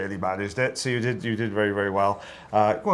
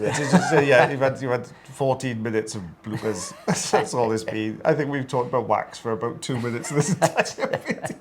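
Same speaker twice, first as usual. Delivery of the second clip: laughing; 4 semitones higher than usual. Real, not acted. Laughing about bloopers.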